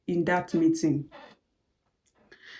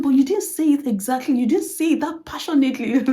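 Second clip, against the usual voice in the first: boss voice; 5 semitones higher than usual. Retold or imitated. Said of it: "And she said".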